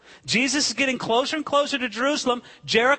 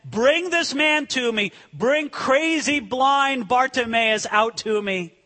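acted summons; 3 semitones higher, slower than usual. Jesus orders the man brought.

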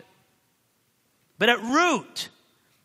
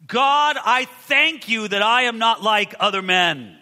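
louder, slowed, self-satisfied prayer; a touch of pompous Pharisee, slow and loud; proud Pharisee; 3 semitones higher, 5 dB louder, slower than usual. Retold or imitated. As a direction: pray as if pleased with yourself. Preacher voicing the proud Pharisee.

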